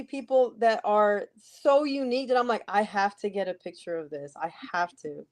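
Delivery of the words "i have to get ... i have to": low, softer quoted thought; hushed, insistent aside to oneself; retold earnest urge. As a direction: drop the voice, as if confiding a compulsion. Retold urge to get a picture.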